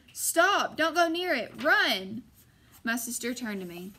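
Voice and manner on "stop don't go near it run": high, loud frantic warning; panicked brother yelling; urgent shout. A narrator's reading. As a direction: shout her away from danger. Warning sister of shadow.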